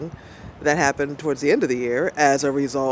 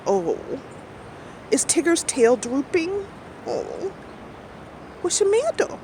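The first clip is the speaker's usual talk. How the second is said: much higher cooing sympathy; tender baby talk; 13 semitones higher than usual. Retold or imitated. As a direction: coo it like comforting a sad pet. Cooing over sick husband.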